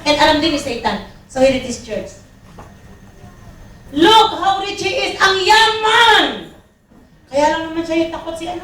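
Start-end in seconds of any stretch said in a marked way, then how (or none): 4.0-6.2 high, slow mock wonder at wealth; mock amazement. Preacher voicing Satan's envy, high and drawn out. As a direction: draw out the envy, tongue in cheek.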